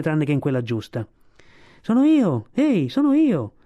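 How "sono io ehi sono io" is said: high, raised call for attention; eager, high-pitched shout to be noticed. A narrator's reading. Kotick calls to be noticed.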